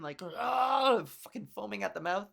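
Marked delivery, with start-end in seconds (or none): 0.2-1.0 mock scream. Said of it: "people screaming".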